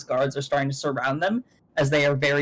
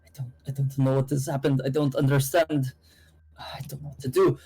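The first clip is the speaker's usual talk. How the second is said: lightly acted bewilderment, trailing toward a whisper; distraught River. River coming over after the arrests, lost and confused. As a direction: play a character at a loss. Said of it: "River, like, coming over and being like".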